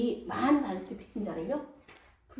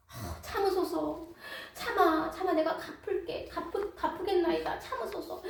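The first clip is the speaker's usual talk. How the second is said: begging colleague; 5 semitones higher than usual. Acted. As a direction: plead for a little more time. Colleague begs for patience.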